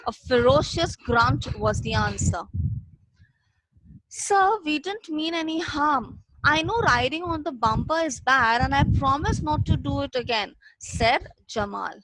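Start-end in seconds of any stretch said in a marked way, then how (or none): 4.1-10.5 pleading. Acted. Boy pleading with kidnapper.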